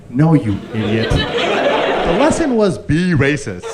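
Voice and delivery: hammed-up parent telling off a dim child; mock parental scolding. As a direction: imitate exasperated parents, drawn out and rising in pitch. Parents scold him in retold scene.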